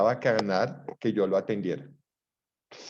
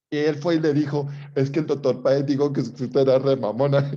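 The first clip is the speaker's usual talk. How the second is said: louder, building to the punchline; excited retelling; 2 semitones higher, 6 dB louder than usual. Real, not acted. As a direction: tell the gossip with rising glee. Cuenta el chisme con énfasis. (contando el chisme, cada vez más fuerte)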